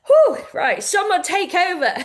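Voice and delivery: tearful laugh to escape the moment; getting emotional. Real, not acted. Host choking up to her community, laughing through tears. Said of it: "now I am getting emotion".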